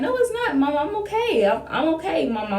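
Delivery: high, soft, insisting she's fine; strained denial. Retold or imitated. To her mom, hiding that something's wrong, high and soft denial. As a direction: brush off the worry in a high small voice.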